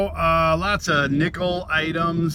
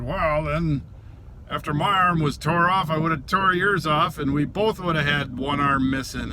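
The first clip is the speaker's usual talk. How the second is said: higher, emphatic comeback; retold comeback; 4 semitones higher than usual. Answering the arm threat, retold comeback. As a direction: fire back a mock threat. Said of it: "So I said".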